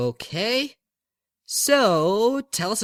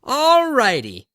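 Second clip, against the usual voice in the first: slow, high announcer opener; host intro; 9 semitones higher, 7 dB louder, slower than usual. Acted. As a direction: sing it out like a radio host kicking off. Radio host launching into intro.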